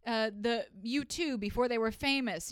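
ordinary talk

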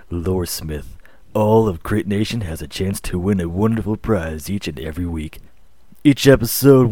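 slow, low announcer read of a sponsor spot; smooth sponsor announcement. Acted. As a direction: sell it like a radio ad. Reads sponsor ad.

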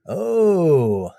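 slightly theatrical villain-baiting speech; taunting film monologue. Acted. Podcast host performing a Marvel monologue for a guessing game, lightly taunting. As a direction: draw out the taunt a little, lightly acted.

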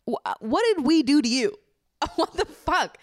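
high, loud, incredulous cry with a laugh; indignant and laughing in disbelief. Real, not acted. Reacting to a viral fatphobic podcaster, loud incredulous outcry.

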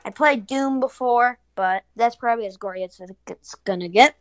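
sounding far off the mic. Real, not acted. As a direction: voice distant from the microphone. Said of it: "Sorry if I sound far away".

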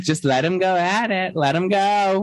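imitating Dorit. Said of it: "Dorit's like".

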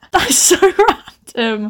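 high-pitched, helpless giggle through the words; laughing. Real, not acted. Author laughing at her own plot, giggly disbelief. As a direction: crack up while saying it.

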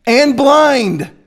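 high and very slow, spitting each word; name-calling with force; slow heated rebuke. Shown as a demonstration. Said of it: "Jesus said in the same chapter".

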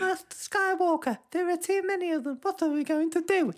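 put-on squeaky, high-pitched little kid; Star Wars child. Frightened kid appeals to his Jedi master, high child voice. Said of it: "That kid looks at him like".

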